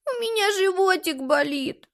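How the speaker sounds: put-on a little girl tells her mother her tummy hurts, tearful; through tears. A narrator's reading. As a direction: whine it like a hurt small child. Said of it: "проговорила сквозь слёзы".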